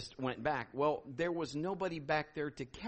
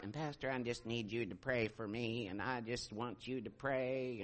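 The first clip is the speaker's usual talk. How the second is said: imitated prayer seeker; 8 semitones lower, 9 dB quieter than usual. Man asking his pastor for prayer, low imitated plea. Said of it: "and he's like".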